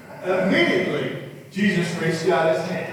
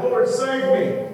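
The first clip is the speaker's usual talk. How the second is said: raised, higher cry for rescue, slower; shouted plea; 9 semitones higher, 6 dB louder, slower than usual. Acted. Peter sinking in the waves, shouting high and loud. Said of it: "He shouted".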